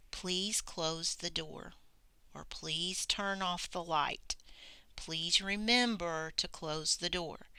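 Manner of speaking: soft, slow, gentle request; calm and nice. Retold or imitated. Dad calmly asking his child, soft and gentle. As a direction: ask kindly, no edge at all. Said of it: "very nicely, very calmly".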